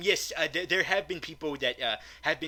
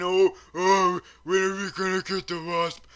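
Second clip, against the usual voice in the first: mock whiny fanboy; 2 semitones higher, 5 dB louder than usual. YouTuber mocks impatient fanboys, whiny put-on voice. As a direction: whine it like an impatient fan.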